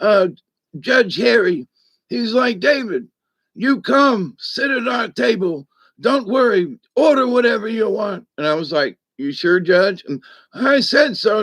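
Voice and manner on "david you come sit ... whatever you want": raspy voice, slightly higher pitch. Retelling what a judge told him, imitating Judge Harry's raspy voice. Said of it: "he has this raspy voice like this".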